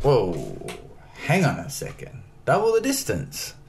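can't believe what you just heard; incredulous. Retold or imitated. Retold shock at double distance.

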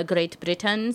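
a hint of an English accent on Great Britain; slipped English accent. Real, not acted. Guest naming where stickers ship from, in an English accent. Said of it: "so that wasn't an English accent".

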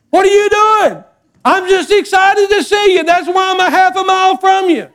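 put-on very high, laughing child voice; playful kid voice. Grandson teasing grandpa from the backyard, high squeaky. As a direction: squeal it like an excited little boy.

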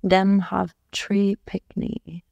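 slow, careful copy of Jamaican patois; a learner's slow attempt at Jamaican patois; imitating Jamaican patois. Shown as a demonstration. Wife repeating her husband's Jamaican phrase, slow careful patois. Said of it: "Say it again".

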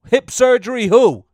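high, disbelieving hip surgery who; half-laughing disbelief; incredulous. Real, not acted. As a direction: scoff at it in disbelief. Incredulous retort to spam.

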